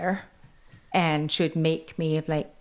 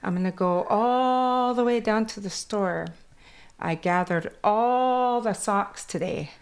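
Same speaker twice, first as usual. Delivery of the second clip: Kwakwala accent; 4 semitones higher than usual. Shown as a demonstration. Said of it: "my accent from Kwakwala goes into English".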